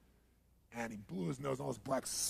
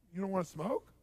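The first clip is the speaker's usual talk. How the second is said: mild, composed question; suddenly calm; 5 semitones higher than usual. Retold or imitated. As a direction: ask it calmly after the screaming. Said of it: "I'd act really calm again".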